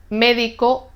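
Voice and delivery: "médico" stressed on the opening mé; stress on antepenultimate syllable. Shown as a demonstration. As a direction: put the weight on mé in "médico". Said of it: "acento en la tercera sílaba por atrás".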